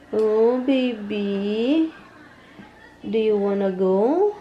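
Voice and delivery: long drawn-out coo, lilting up at the end. Real, not acted. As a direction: coax a little one slowly. Cooing at a baby or pet.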